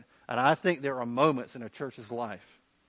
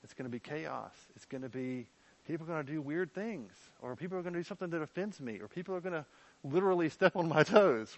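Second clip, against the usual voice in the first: mock worried objector; 6 dB quieter than usual. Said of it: "questions that come up about".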